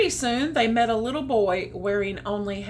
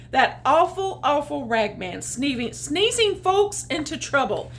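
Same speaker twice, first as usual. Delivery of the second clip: cross rooster; 4 semitones higher, 4 dB louder than usual. Acted. Rooster complaining angrily.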